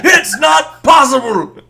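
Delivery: high, loud, slow squeal of disbelief; squealing character cry. Acted. GM voicing a shocked figure, high squeal. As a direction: shriek it out like a panicked little creature.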